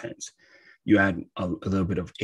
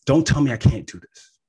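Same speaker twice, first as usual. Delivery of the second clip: raised, higher defiant push-back; defiant call; 4 semitones higher, 7 dB louder than usual. Acted. Speaker voicing a Mars person who refuses limits, loud and defiant. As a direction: refuse to be told no, loudly. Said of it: "It's about saying".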